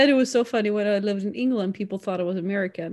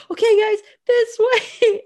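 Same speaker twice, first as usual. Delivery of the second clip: put-on much higher, slow, laughing French accent; weird French accent; 13 semitones higher, 6 dB louder than usual. Leading friends around Paris as a mock tour guide, high laughing French accent. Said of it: "in the weird French accent".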